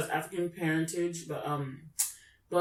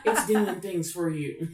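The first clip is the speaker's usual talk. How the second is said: laughing repeat; slower than usual. Retold or imitated. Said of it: "I was like".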